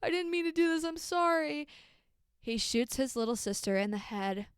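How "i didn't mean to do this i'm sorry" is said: higher-pitched frantic sorry, no louder; a mock panicked plea, pitched up; frantic apology. Brother apologizing to his wounded sister, frantic and high. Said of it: "while apologizing very loudly".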